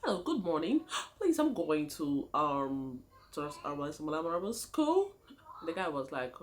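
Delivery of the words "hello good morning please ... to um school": put-on lightly switching her Nigerian accent to a local one; a hesitant try at sounding local; mildly put-on foreign accent. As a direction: newcomer on the bus faking the local accent. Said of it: "I had to change my accent too".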